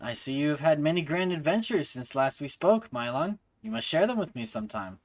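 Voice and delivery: measured, formal character reading; courteous game character. Acted. Acquaintance giving Mylon directions to the flowers, courteous character voice. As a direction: voice an observant, well-spoken acquaintance.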